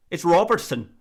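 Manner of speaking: mock Scottish accent on ROBERTSON. YouTuber imitating a Scottish person correcting the name, Scottish accent. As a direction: correct them as a Scot, rolling out "Robertson". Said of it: "and a Scottish person said".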